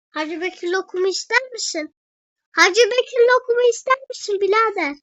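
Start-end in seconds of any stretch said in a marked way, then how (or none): 2.5-5.0 louder, higher, fast street hawker pitch; hawker's call. Pretend. Offering lokum to a passing brother, loud hawker voice. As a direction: sell it like a loud bazaar vendor. Vendor call repeated, punched up.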